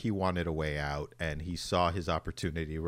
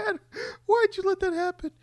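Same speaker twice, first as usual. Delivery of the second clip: put-on very high pleading kid voice; a small boy begging his father; child Clark. Crying Clark asks dad.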